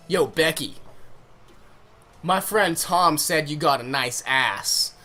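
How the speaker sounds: slow, swaggering street-slang delivery. Retold or imitated. Boy to a girl at a swim meet, swaggering slang voice. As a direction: lay on a cocky slang swagger, drawn out. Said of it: "Not really like that".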